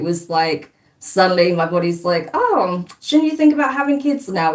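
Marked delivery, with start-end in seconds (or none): 2.3-4.5 nagging body voice. Retold or imitated. Voicing her body nagging.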